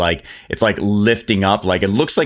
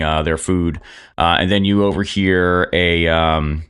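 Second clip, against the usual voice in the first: ordinary talk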